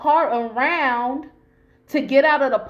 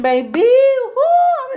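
emotional whoo; 14 semitones higher, 9 dB louder, much slower than usual. Real, not acted. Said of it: "I'm about to fucking start crying".

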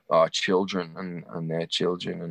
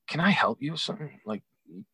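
manager voice; 6 semitones higher than usual. Retold or imitated. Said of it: "He say".

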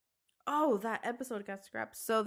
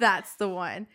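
excited; 6 dB louder, slower than usual. Retold or imitated. Acting delight at seeing tortoises.

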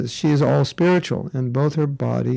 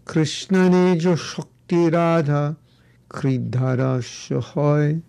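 Bengali accent; slower than usual. Shown as a demonstration. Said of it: "Bengali accent".

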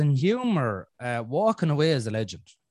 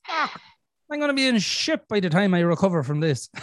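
panicked curse; 4 semitones higher than usual. Retold or imitated. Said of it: "And I'm going".

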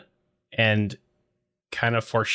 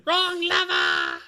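very high, slow put-on voice; high character voice; slower than usual. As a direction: squeak it out like a cartoon henchman. Voicing movie character.

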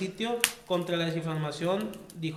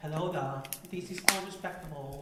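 put-on English accent; 2 semitones lower, 6 dB quieter, slower than usual. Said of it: "Estás hablando como, como inglés".

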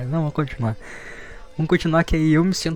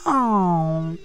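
drawn-out aww; 4 semitones higher than usual. Acted. Reacts to the couple's affection.

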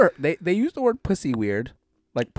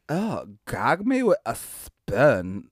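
valley girl imitation; 4 semitones lower, much slower than usual. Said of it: "have you ever heard".

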